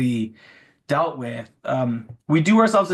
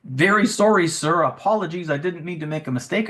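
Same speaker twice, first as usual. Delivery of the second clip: lightly mocking an overly polite chatbot; a hint of a stiff, servile assistant saying sorry; clunky robot apology; 2 semitones higher than usual. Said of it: "the clunky".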